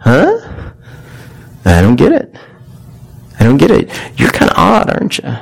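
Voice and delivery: a hammed-up puzzled onlooker; puzzled mocking world. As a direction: play the world scoffing at a believer, baffled.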